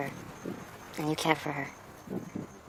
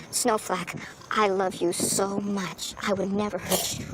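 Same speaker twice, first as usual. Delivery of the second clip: tender promise; 3 semitones higher, slower than usual. Shown as a demonstration. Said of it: "you tell her".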